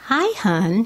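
slow, tender greeting with a laugh; soft and loving. Retold or imitated. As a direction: say it lovingly and slowly, half laughing. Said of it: "His voice soft and loving".

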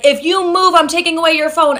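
lightly voiced parental ultimatum; mock threatening dad. Dad's threat voiced in story.

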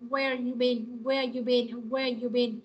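"where you been" with "are" shrunk to a schwa after "where"; reduced "are". Shown as a demonstration. Teacher showing the class the weak form, "where you been" with reduced "are". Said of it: "trong câu này sẽ là chữ ơ ha".

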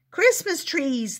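high, loud, slow cheer; excited shout. Acted. Happy trolls shouting with excitement. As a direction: cheer it out while jumping. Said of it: "they shouted".

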